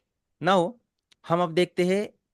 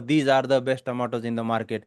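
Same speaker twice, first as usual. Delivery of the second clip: word by word; 2 semitones lower, much slower than usual. Shown as a demonstration. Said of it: "मैं जब बोल रहा हूँ".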